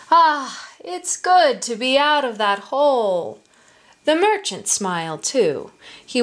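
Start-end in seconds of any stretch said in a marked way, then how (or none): 0.1-3.4 satisfied "ah", pitched higher; relieved. Acted. Tiger just climbed out of the pit, relieved. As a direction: relish the freedom with a contented lift. Freed tiger stretches and smiles.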